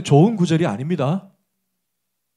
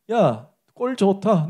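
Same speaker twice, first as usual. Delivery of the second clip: mocking friend; much slower than usual. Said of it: "막 약 올렸어요".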